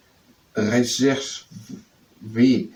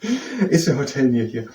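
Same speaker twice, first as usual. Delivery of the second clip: laughing; 3 semitones higher, 3 dB louder than usual. Real, not acted. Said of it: "You're probably not gonna ask that".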